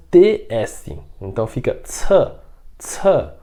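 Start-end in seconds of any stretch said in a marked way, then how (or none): 1.8-3.3 "ce" with a strong puff of air, like ts; aspirated ce. Shown as a demonstration. Teacher showing students the breathy "ce". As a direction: blow the "ce" out, high and aspirated. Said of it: "ele é soprado".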